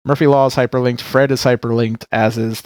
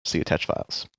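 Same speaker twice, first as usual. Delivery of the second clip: whispered; 8 semitones lower, 11 dB quieter than usual. Acted. Mock dramatic sign-off.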